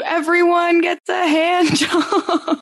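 slow, drawn-out talk show host announcement; Oprah impression. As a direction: announce it like Oprah giving away prizes. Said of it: "did the Oprah impression".

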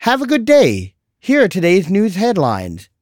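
mock phone assistant cheer; chirpy assistant voice. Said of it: "and then it would say".

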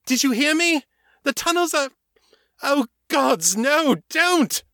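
very high, frantic shout of anger and fear; vampire yelling at the shooting men to stop; angry terrified shouting. Acted. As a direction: scream it over the gunfire. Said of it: "her voice full of anger and terror".

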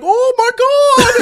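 high, slow, dopey gasp; dumb fat guy voice. Pretend. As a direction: play a clueless oaf, dragging it out. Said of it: "And he's just like".

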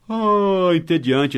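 long high sighing "Ah", then bored word; put-on sigh of tedium; mock boredom. Teacher acting out the word boring, mock bored sigh.

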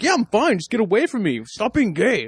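high-pitched whiny imitation of an annoyed guy; mock defensive guy. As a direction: squeak it out like a touchy dude brushing you off. Mocking a guy's defensive reply.

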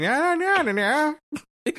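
high-pitched mock gangster chatter; hammed-up 1920s mobster yammering; old-time gangster. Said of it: "or are you a gangster".

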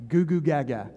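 mock baby talk. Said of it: "Just talk like a baby".

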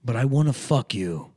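lightly voiced parody of a haughty therapist; Jennifer Melfi. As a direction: confess it with hammed-up grandeur. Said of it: "as Jennifer Melfi".

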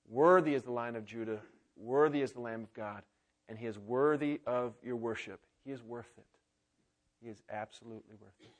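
low, softening declaration of worth; reverent worship. Acted. Pastor closing the sermon, hushed reverent worship. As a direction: let it fall into hushed reverence.

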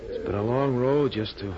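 self-mocking, dramatic mini eulogy; grandly wistful summing-up of oneself. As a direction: declaim it like your own obituary, with pauses. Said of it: "stop being dramatic".

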